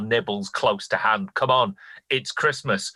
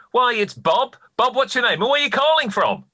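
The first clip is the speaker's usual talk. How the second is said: overbright host greeting; 11 semitones higher, 4 dB louder than usual. Acted. Host greets second caller.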